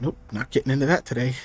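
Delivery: muttering under breath. Game master voicing a character overheard by a player, muttering under her breath. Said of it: "under her breath just go".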